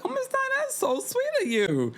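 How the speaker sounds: squeaky high falsetto gratitude; high mock sweet thanks. Kelly thanking Miss Diane for the dress, high falsetto. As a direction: gush in a tiny high voice. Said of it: "And she".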